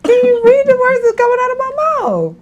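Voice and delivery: high, lightly voiced movie line; quoting a comedy line for laughs; Chris Tucker quote. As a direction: toss off a mild Chris Tucker bit. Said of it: "Was it Chris Tucker?".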